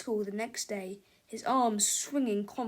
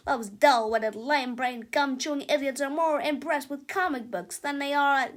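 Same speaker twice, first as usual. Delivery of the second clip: a higher, louder self-important rant; pompous boy genius; 4 semitones higher, 4 dB louder than usual. Acted. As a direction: lecture like a smug mad scientist. Melvin's held voice.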